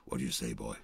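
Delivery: lightly voiced surly boss; gruff star. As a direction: bark it down at the kid. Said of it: "He goes".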